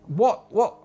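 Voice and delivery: high-pitched false start at Liverpudlian; attempted Liverpudlian accent. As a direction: have a failed go at Scouse. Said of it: "I can't do the Liverpudlian accent".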